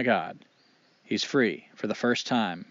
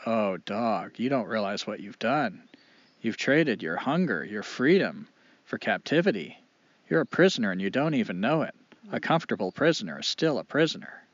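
understated, sorrowful reproach; mildly mournful, measured pity; sad. Acted. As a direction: gently break it to a friend with regret. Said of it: "shakes his head sadly and says".

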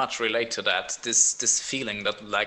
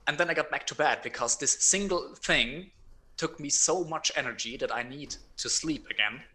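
bitter retort. Retold or imitated. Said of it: "And I was like".

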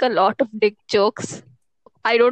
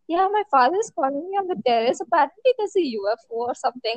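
fast, offhand retelling; breezy, casual imitation; imitated casual; faster than usual. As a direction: rattle it off as if it's nothing. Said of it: "she just casually was like".

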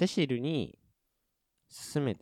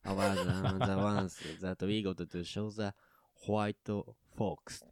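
Kansai dialect; 3 dB louder, much slower than usual. Retold or imitated. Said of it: "めちゃくちゃ関西弁やった".

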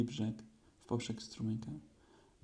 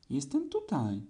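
squeaking; 3 semitones higher, slower than usual. Acted. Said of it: "zapiszczało maleństwo".

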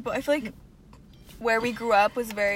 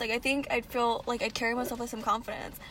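mock articulate; 4 dB louder than usual. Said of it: "that's not what we say".

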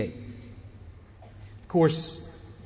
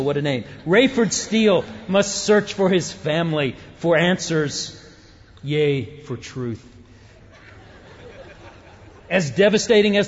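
movie trailer guy voice; 5 dB louder than usual. Shown as a demonstration. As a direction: announce it like an action movie trailer. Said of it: "action movie trailer guy voice".

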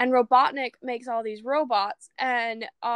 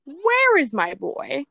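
louder and drawn out, worried; louder, slower plea; 5 dB louder, slower than usual. Retold or imitated. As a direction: stretch it out and call louder. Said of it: "And I'm like".

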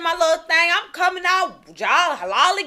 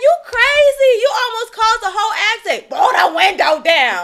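louder, higher scolding; angry retort; 6 semitones higher, 5 dB louder than usual. Retold or imitated. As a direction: tell the driver off. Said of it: "I said".

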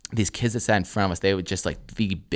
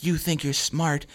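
slow, higher, softer mock teacher voice; scolding teacher; 7 semitones higher, 5 dB quieter, slower than usual. Teacher going in on a student, slow pointed scolding. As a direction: draw it out as a needling teacher. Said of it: "she is just going in".

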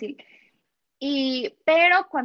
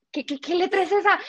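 higher, louder stammered question; flustered question; 6 semitones higher, 4 dB louder than usual. Retold or imitated. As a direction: stumble over it, lost. Retold confusion over letter. (pregunta atropellada, más aguda y fuerte)

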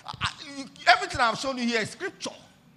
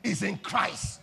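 loud, high, slow preached declaration; building to a shouted climax; triumphant proclamation; 3 semitones higher, 6 dB louder, slower than usual. Acted. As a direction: shout it out in victory. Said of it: "He said".

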